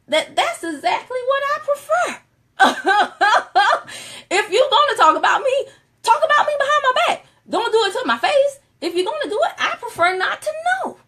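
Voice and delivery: laughing through the words, voice jumping high; high giggly laughter. Real, not acted. Laughing through her joke.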